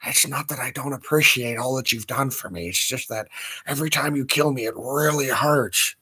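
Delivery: a soft, lightly voiced meek devil's son; a hint of Little Nicky's meek voice. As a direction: mumble it shyly like a timid kid. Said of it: "the Little Nicky voice".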